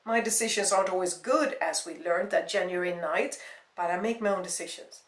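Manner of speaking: loud, emphatic indignation; angry retort. Acted. Jenny defending her choices to her ex, angrily. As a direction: cut in forcefully and assert yourself.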